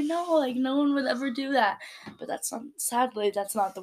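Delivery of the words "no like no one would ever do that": naive disbelief. Retold or imitated. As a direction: play the naive inner voice refusing to believe. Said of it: "my little naive mind is like".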